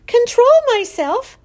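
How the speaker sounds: high, loud, indignant yell. A narrator's reading. Daughter retorts to father's reproof, yelling. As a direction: throw it back at him, outraged. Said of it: "yelled Fern".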